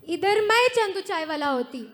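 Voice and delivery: a man's light put-on woman's voice; man doing a woman's voice. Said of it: "लड़की की तरह बात करती".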